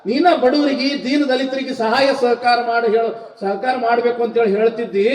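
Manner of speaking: high-pitched protest, speeding up at the end; aggrieved protest. Acted. Son asking his mother why she hit him, aggrieved.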